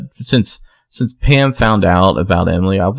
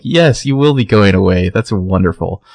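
mildly gloating, sweetly wicked delight; gleeful evil smile. Retold or imitated. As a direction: say it through a sly evil smile. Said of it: "genuine, but also, like, kind of, like, evil smile".

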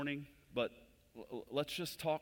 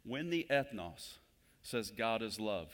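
slowed explanation; slower than usual. Shown as a demonstration. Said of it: "here's what I would suggest".

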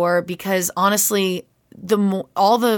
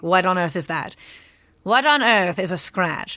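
imitating Kate Mulgrew. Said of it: "she'll be like".

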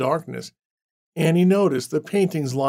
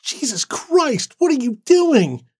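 much higher, louder shocked cry; shocked screech; 11 semitones higher, 5 dB louder, slower than usual. Acted. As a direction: shriek it as the door crashes in. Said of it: "Annie screeched in surprise".

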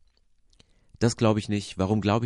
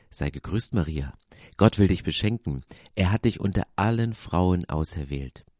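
calm, measured Bible reading; scripture reading; 3 semitones lower than usual. Acted. Podcast host reads Luke's nativity text, calm reading. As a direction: read the Christmas story steadily to listeners.

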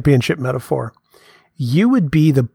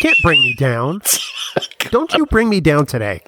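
dramatic reading. Pretend. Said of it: "that's a dramatic reading of a song".

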